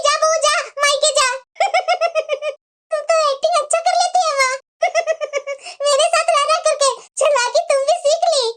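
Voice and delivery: amused gloating through laughter; giggly, delighted teasing; gleeful laughing. Acted. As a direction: laugh as you tease your accomplice. Daughter and mother gloat over the trick.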